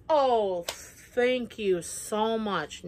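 slow, drawn-out sarcastic thanks; mock gratitude. Reacting to the ex's new profile picture, sarcastically grateful. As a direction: overplay the thanks. Relief at the ex moving on.

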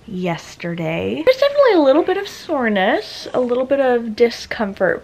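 slight lisp from new aligner trays; talking around fresh Invisalign trays. Real, not acted. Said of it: "speaking a little different right now".

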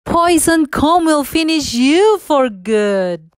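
slow, gloating menacing voice; villainous queen. A narrator's reading. Queen revealing herself to fallen Snow White, gloating menace. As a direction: relish every word of the threat. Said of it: "the villainous queen".

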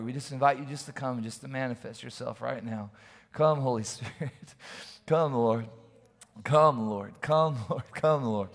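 earnest spoken prayer. Real, not acted. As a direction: pray over him sincerely. Prays over Joe.

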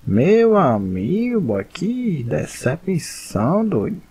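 disappointed drawl. Real, not acted. Just lost the fight.

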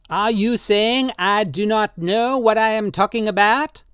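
put-on high, slow, pleading old man's voice; old tattooist Drioli, drunk and pleading. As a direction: coax him tenderly, in wine. Drioli indignant.

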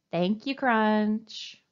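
slow, careful thank you. Shown as a demonstration. Teacher showing kids how to thank Crunch, slow. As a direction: say it slowly and clearly.

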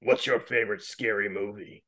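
low, quiet Scream killer voice; creepy slasher phone voice; Ghostface voice. Pretend. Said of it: "Want me to do the Ghostface voice?".

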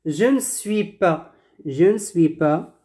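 Je ne suis pas with ne shortened to n; silent E in ne. Shown as a demonstration. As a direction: model Je ne suis pas as « je n'suis pas ». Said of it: "on ne prononce pas le E". (Je ne suis pas, sans prononcer le E de ne)

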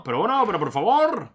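agudo y más fuerte, indignado; protesta indignada. Real, not acted. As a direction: quejarse en voz alta del ataque. Protests at being attacked in game. (indignado, subiendo la voz)

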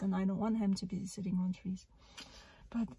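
ordinary talk

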